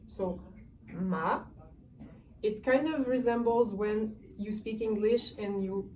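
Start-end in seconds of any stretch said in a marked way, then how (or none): 0.9-1.4 "ma" sliding up like a question; rising second tone. Shown as a demonstration. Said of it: "It's the rising tone".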